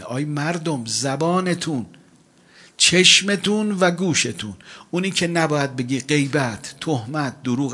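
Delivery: slow, loud, high preaching; sermon at full force; fiery warning. Acted. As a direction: drive the warning home slowly.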